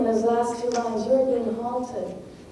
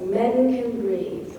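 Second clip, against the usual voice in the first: slow three-beat "men can breathe"; grouped in threes; slower than usual. Shown as a demonstration. Teacher showing threesomes, slow and evenly grouped. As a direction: set "men can breathe" apart as one measured group. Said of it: "groups of syllables and threesomes".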